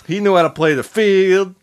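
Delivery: lightly hammed Italian-American narration; put-on Italian-American accent. Shown as a demonstration. Host explaining how Frank got played, light Italian-American accent. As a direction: tell it like an Italian-American neighborhood guy. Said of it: "how's this accent working for you guys".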